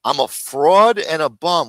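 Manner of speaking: slow sneering echo of the insult; slow mocking repeat. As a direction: drag it out, mocking. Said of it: "Where does he get this shit from".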